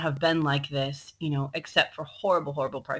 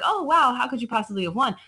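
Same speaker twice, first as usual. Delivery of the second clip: playing the crowd, amazed anyone could win; amazed disbelief; 4 semitones higher than usual. Crowd marveling at David's win, raised astonished voice. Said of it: "everyone's like".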